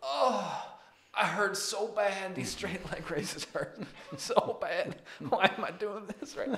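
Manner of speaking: high, slow twangy whine about the pain; hammed-up twangy accent, complaining. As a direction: moan about sore legs in a put-on twangy accent. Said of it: "I like the twa-, the twangy accent you got going there".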